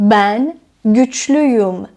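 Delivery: güçlüyüm stretched slowly; slow model sentence. Shown as a demonstration. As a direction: repeat güçlüyüm slowly for learners. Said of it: "بنابراین".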